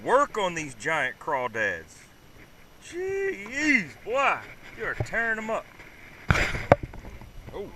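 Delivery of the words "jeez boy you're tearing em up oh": delighted praise. Real, not acted. Praising his son, high voice.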